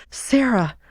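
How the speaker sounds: a hint of a frantic little sister; Fanny's voice.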